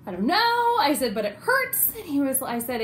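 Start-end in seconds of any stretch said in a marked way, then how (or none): 0.1-0.8 loud, high-pitched pained wail; mock distressed yelp, high and loud; pained outcry. Acts out her pained reply. 1.1-1.9 high-pitched mock whine; re-enacted plaintive high whimper; pained whine. Acts out complaint after nerve hit.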